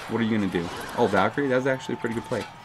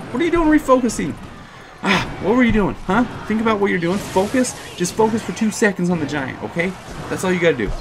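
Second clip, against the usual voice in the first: mock scolding; 8 semitones higher than usual. Scolding his own troop.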